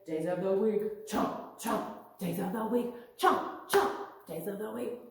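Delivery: growly shark chant. Pretend. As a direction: chomp like a hungry shark. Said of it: "Nice sharp voices".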